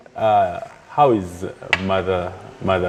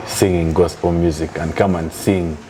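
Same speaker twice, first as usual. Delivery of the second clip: mock dancehall chant, getting higher; mock secular producer; 5 semitones higher, slower than usual. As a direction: tease her with a hammed-up dancehall hook. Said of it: "If they called you and said".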